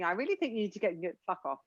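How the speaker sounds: soft, sweetly polite then blunt; mock polite brush-off. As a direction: say it nicely on the phone. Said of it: "how brilliant it would be".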